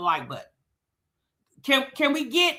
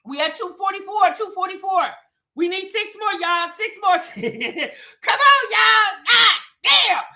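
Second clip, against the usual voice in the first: mock auctioneer calling bids, a touch higher; 5 semitones higher than usual. Host begging chat for likes, light mock auction call. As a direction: rattle off the bid numbers like a playful auctioneer. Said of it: "I sound like I'm at an auction".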